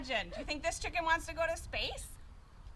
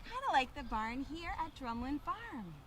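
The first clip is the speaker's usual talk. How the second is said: put-on reading to children; 3 semitones lower, slower than usual. A narrator's reading. Reading picture book to children.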